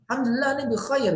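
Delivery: high, quick cheerful reply; jawaban bahagia. Shown as a demonstration. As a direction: answer brightly and fast, as if feeling well. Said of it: "pasti kan kita jawabnya bahagia". (menjawab bahagia, cepat dan bernada tinggi)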